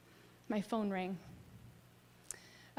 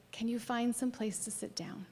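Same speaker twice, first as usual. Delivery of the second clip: gentle whisper; 3 dB quieter than usual. Retold or imitated. Friend gently guiding her.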